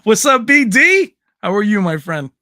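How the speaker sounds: joyful hollering hello to a friend in chat; excited shout. Real, not acted. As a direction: call out the name with a laugh. Shouting greeting at a chatter.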